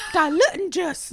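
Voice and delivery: high, loud, slow hammed-up Scottish accent; bad Scottish accent. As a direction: do a daughter's cheeky fake Scottish. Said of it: "puts on a bad Scottish accent".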